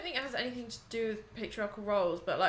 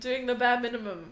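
stuffy-nosed voice; blocked nose; 3 semitones higher, 5 dB louder than usual. Real, not acted. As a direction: talk through a blocked nose. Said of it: "It's 'cause my nose is blocked".

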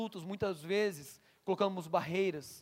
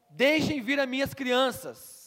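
slow, raised "Deixem vir" spoken with indignation; indignant Jesus; 4 semitones higher, 5 dB louder, slower than usual. Retold or imitated. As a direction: speak as Jesus, firmly rebuking. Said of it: "ficou indignado e lhes disse". (Jesus indignado, voz firme e lenta)

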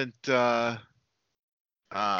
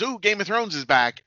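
higher-pitched imitation of eager fans; mock excitement; 5 semitones higher than usual. Imagined fans greeting the show's return.

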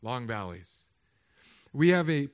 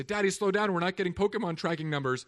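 put-on older son nagging; 4 semitones higher, 4 dB louder than usual. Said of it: "my older son will say".

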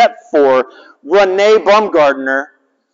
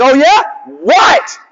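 retold comeback; 10 semitones higher than usual. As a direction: throw back a cocky dare as a kid. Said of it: "I'm like".

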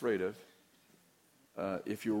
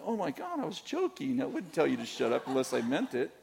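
laughing reassurance; 5 semitones higher than usual. Retold or imitated. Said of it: "I'm like".

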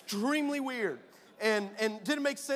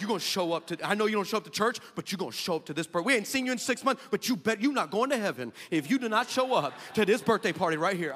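mock threat; 6 dB louder than usual. Threatening youth kids.

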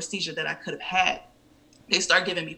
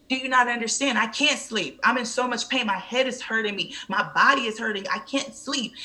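high-pitched, pained retold complaint; exasperated protest; 6 semitones higher than usual. Patient in pain to doctor, exasperated. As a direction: plead to be understood.

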